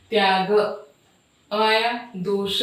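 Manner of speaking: "त्याग" and "दोष" ending on an audible short अ; final vowel sounded. Shown as a demonstration. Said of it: "अ उच्चारण हो रहा है लास्ट में".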